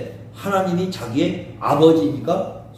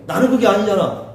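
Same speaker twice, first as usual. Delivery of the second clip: higher-pitched acted rebuttal; mildly angry protest; 4 semitones higher than usual. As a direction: insist you have been misunderstood. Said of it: "욥은 더 화가 나는 거야". (억울해서 살짝 화내며 반박하듯)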